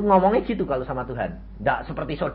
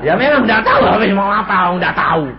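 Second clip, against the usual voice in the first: laughing admission; 5 semitones higher, 5 dB louder than usual. Real, not acted. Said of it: "Ya, saya jujur".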